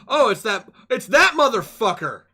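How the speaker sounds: loud, high shocked outburst; surprised shout. Real, not acted. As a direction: yell in recognition. Recognizes the villain.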